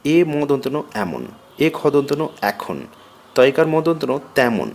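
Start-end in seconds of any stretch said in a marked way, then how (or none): 1.0-1.2 এমন said "aemon"; open ae sound. Shown as a demonstration. Teacher showing altered এ-কার, open ae in এমন. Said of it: "একার বিকৃত". 2.5-2.8 এখন said "aekhon"; open ae sound. Shown as a demonstration. Teacher showing altered এ-কার, open ae in এখন. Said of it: "একার বিকৃত".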